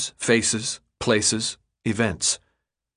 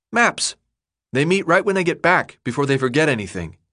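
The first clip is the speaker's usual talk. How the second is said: put-on higher young boy, matter-of-fact; 5 semitones higher than usual. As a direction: explain like a know-it-all kid. Chuck explaining.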